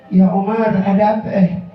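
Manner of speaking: imitated trembling fear. Tha'labah fears a verse cursing him, imitated trembling plea. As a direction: stretch the words in mild retold dread. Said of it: "Maka Tha'labah gemeter".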